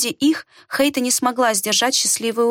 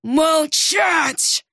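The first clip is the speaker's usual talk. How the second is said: barked order; 5 semitones higher than usual. A narrator's reading. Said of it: "рявкнул Хобарт".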